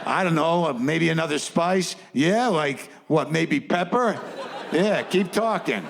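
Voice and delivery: rising excitement over a scam; excited hustlers. Retold or imitated. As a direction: thirties movie gangster glee. Hustlers getting excited over idea.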